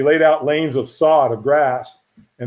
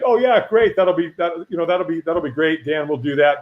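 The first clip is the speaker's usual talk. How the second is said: feigned agreement; 3 semitones higher than usual. Retold or imitated. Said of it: "what's going on in my head is".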